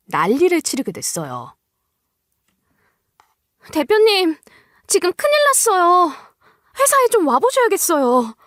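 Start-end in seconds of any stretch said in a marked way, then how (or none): 3.7-8.4 much higher, urgent and breathless with alarm; panicked employee. Acted. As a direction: blurt out trouble at the company in a fright. 직원이 급하게 알림. (겁에 질려 높고 다급한 목소리로)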